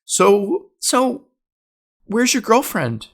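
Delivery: high put-on aunt voice; prying aunt imitation. Aunt asks about girlfriend, high prying voice.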